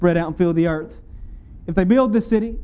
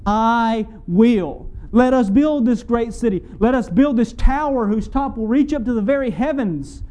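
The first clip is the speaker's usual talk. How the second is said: higher-pitched, grand declaration with a touch of arrogance; presumptuous; 5 semitones higher, slower than usual. Acted. Preacher voicing Babel's builders, presumptuous boast. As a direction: boast it as a proud builder would. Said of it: "That's presumptuous".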